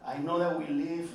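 a hint of a tender dad; Mexican dad. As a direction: gently lecture the kid like an immigrant father. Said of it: "They look at their kids and go".

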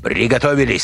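high, urgent order; commanding. A narrator's reading. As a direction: give the squad the order. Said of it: "скомандовал Решетников".

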